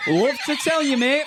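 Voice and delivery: high, drawn-out English caller impression; English accent. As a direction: stretch out the news in a mock English accent. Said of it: "Your English accent is fucking spot on".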